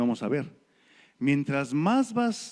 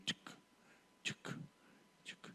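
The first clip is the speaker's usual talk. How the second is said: sonido del bastón; 25 dB quieter, slower than usual. Retold or imitated. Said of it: "nada más oía su bastón".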